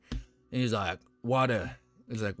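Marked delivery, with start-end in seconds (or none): 1.2-1.8 quick Aussie accent impression; imitated Australian accent. Streamer quoting an Australian he met, imitated Aussie accent. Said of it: "never heard an Australian accent".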